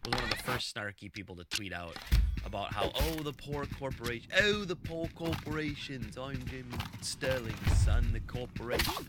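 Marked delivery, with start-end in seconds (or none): 3.0-9.1 a deliberately bad put-on accent, slowed and mocking; terrible Jim Sterling accent. Mocking Jim Sterling's snarky tweet about poor corporations, in a terrible accent. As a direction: drag out "oh, the poor corporations" in a hammed-up fake accent. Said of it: "That was a terrible accent".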